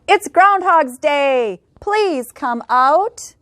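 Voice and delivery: slow, drawn-out calling of the townsfolk; mild crowd shout. Acted. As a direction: call him out slowly like a whole crowd. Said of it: "said with a shout".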